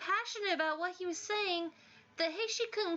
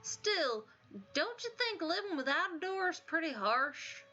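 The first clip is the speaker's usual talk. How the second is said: much higher, gentle worried voice; timid sweet student; 6 semitones higher than usual. Acted. Timid student worrying to Kakeru about Senri, high and gentle. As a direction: plead kindly for him.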